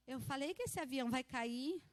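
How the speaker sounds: imitating a child's calm, understated verdict; retold serene warning. Son calmly tells his mother the plane will fall, serene. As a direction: say it serenely, without any alarm. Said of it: "olhou bem sereno pra mim e falou assim".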